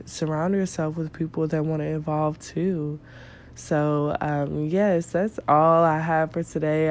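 stuffy nasal voice from a cold. Real, not acted. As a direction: talk through a blocked nose. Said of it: "my nasally voice".

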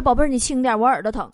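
lightly voiced cowed boyfriend; meek pleading. Boyfriend begging her to release his ear, meek pleading. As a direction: plead meekly, dropping the voice.

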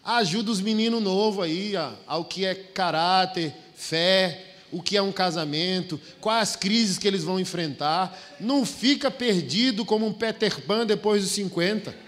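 loud, high, fervent pulpit exhortation; preaching at full force. Acted. Pastor urging older husbands from the pulpit, loud fervent preaching. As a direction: preach it out, pushing every phrase.

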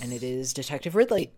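words through a burp; burping while talking. Real, not acted. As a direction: let a burp drop the voice. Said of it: "Did your voice just drop as you were speaking?".

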